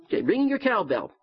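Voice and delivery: playful cheer aimed at Fred; excited. Real, not acted. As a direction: ring the bell for him playfully.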